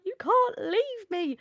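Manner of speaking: high, slow, wailing plea; whiny plea. Retold or imitated. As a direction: stretch it out like a clingy teenager. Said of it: "She's like".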